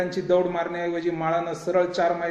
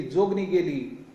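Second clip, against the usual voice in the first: slow, understated repeat of the cry; fading echoed outcry; slower than usual. A narrator's reading. Crowd's cry echoing away, slow understated outcry. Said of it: "सर्वत्र एकच ओरड घुमली".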